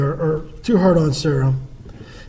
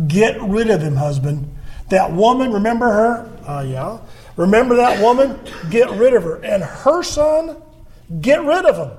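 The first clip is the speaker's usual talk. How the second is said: insistent wife; 3 semitones higher than usual. Retold or imitated. Wife pressing her husband to send them away, demanding. Sarah demanding Abraham expel Hagar.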